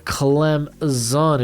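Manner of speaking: "Clemson" drawn out slowly, syllable by syllable; deliberate pronunciation. Real, not acted. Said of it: "That's how they say it's pronounced".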